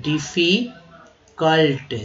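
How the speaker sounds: डिफिकल्ट drawn out very slowly; slow demo. Shown as a demonstration. Teacher sounding out डिफिकल्ट slowly for students. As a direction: stretch डिफिकल्ट syllable by syllable. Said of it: "यू का उच्चारण यहाँ भी अ".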